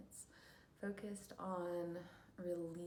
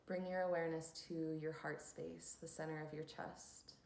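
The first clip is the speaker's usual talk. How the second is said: unhurried instructions for settling into stillness; guided meditation; 4 dB louder than usual. Acted. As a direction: lead listeners into calm, leaving long pauses.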